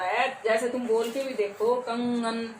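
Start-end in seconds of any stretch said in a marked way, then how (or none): 1.7-2.5 कंगन with the ng through the nose; nasal sound. Shown as a demonstration. Teacher asks pupils to feel the nasal sound. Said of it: "नाक से हो रहा है उच्चारण".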